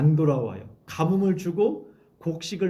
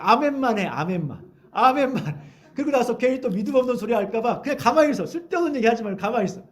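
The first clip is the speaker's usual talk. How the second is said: mock bossy orders; 5 semitones higher, 4 dB louder than usual. Mimicking pushy evangelist orders.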